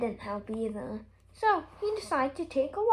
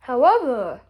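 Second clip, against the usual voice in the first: a loud, weighty however; dramatic however; 9 dB louder than usual. A narrator's reading. King turns the crowd's hopes with a loud however. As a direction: land the turn hard.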